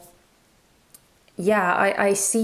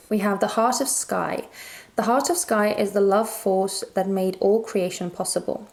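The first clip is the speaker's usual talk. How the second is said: measured, evenly phrased reading aloud; guidebook reading. Acted. Tarot reader reading the guidebook to viewers, measured recital. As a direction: read it out in full, flowing sentences.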